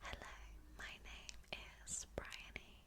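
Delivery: hushed ASMR whisper; whispered intro. Shown as a demonstration. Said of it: "or I could say".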